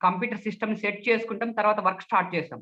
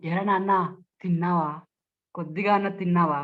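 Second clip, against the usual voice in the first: mild, tender coaxing; 3 semitones lower than usual. Shown as a demonstration. Speech trainer asks a child about eating, gently coaxing. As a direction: cajole a little one gently. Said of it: "ఇది బుజ్జగింపు".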